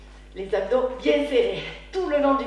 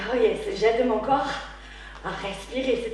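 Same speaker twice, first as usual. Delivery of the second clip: blowing out hard. Real, not acted. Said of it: "vous allez m'entendre souffler fort".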